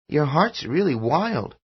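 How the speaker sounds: put-on a kid noticing his dad's heart; child's voice. A narrator's reading. Son in father's hug, high child voice.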